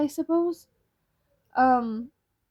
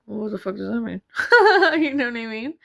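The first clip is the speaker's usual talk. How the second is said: laughing; 5 dB louder, faster than usual. Retold or imitated. Retelling asking the antler seller.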